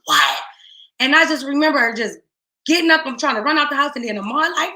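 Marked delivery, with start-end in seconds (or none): 0.0-0.4 breathless crying whisper; mother hearing her son was shot, whispering in shock. Retold or imitated. Gasp it out in a crying whisper. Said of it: "And I'm like".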